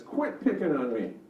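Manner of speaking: put-on lightly whiny, defensive child; a hint of a picked-on kid complaining. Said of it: "kind of whiny".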